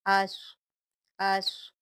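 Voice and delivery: अस with a thick, heavy s; heavy sad. Shown as a demonstration. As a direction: say अस with a full-mouthed sad. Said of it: "इसको आप स्वाद पढ़ेंगे".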